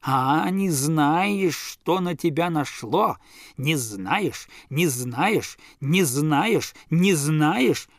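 building scold, one beat per shake of the ear; repeated with each shake. Acted. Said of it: "повторял он с каждым словом".

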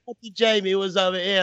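normal talking voice

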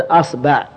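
أصبع said "asba'", a in both syllables; a-a vowels. Shown as a demonstration. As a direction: open on a, then "ba'". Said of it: "فتحنا الهمزة".

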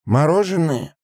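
high-pitched query; questioning captain. A narrator's reading. Captain squints, asks in surprise. (переспрашивает высоким голосом)

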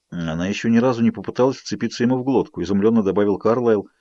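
ordinary delivery, nothing marked

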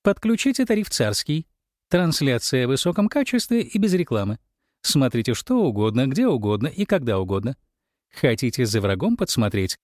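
upbeat fast sales pitch voice; perky ad patter. Acted. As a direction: rattle it off like a cheerful ad. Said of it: "бодрой скороговоркой".

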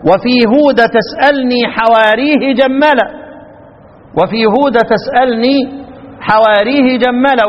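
slow chanted line with تسألني kept light; recited verse line. Shown as a demonstration. Teacher quoting the verse text to students, slow chant. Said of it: "بيثبتوا في حالة الوصل".

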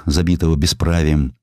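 usual speaking voice

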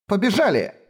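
shouted. Acted. Kefar dragging Lemil away from danger, shouting to run. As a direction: yell it, pulling her away. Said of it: "крикнула Кефар".

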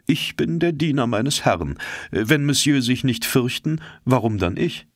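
loyal servant Conseil, lightly voiced. A narrator's reading. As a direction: answer with simple loyalty to his master. Conseil voiced in read story.

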